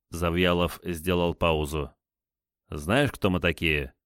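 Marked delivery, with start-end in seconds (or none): none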